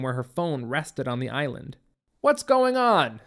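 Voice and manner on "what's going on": higher, louder, slow call across the room; calling after. A narrator's reading. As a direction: call out after her, slowly. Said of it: "her father called after her".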